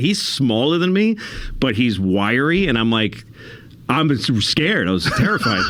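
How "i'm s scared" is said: laughing. Real, not acted. Laughing while admitting fear.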